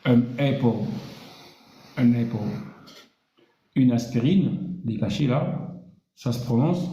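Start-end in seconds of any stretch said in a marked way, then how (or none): 0.1-0.9 an apple with apple as epo; pronunciation demo. Shown as a demonstration. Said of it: "se lit". 2.0-2.5 an apple repeated, falling on an; pronunciation demo. Shown as a demonstration. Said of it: "se lit".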